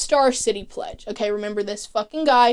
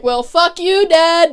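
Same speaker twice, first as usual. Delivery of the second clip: louder and higher, a hammed-up snap at dad; mock angry outburst; 6 semitones higher, 4 dB louder, slower than usual. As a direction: tell off your dad, half in jest. Son snaps at father on phone.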